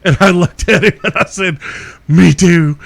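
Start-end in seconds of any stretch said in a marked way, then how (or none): 2.1-2.8 cheery agreement. Retold or imitated. Answering the soaked cop.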